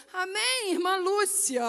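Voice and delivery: lilting, played-up intonation on "Amém, irmã Lúcia"; extra intonation. Missionary greeting the sister by phone, extra intonation on "Amém, irmã Lúcia". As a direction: put a swelling, showy tune on "Amém, irmã Lúcia". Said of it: "deu uma entoação mais na voz".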